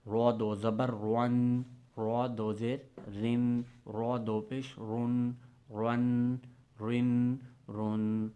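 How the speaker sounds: را دو زبر رون read slowly with nasal نون; slow Qaida tanween drill; slow recitation drill. Shown as a demonstration. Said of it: "را موٹا نہیں پڑھا جاتا".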